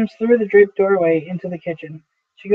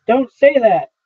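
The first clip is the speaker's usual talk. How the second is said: a touch of furious, louder protest; furious retort; 4 semitones higher, 4 dB louder than usual. A narrator's reading. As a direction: snap it back at him, mildly angry. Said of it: "happy and furious".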